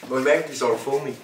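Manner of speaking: joking touch of Irish accent; accidental Irish accent. Real, not acted. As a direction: repeat it with a slight Irish lilt. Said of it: "I've got an Irish accent now".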